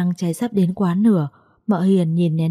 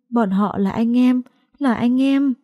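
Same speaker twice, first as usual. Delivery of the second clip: fading last words; 5 semitones higher than usual. Acted.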